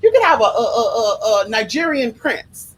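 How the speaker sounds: laughing disbelief at her choice; incredulous advice. Retold or imitated. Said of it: "And I'm just like".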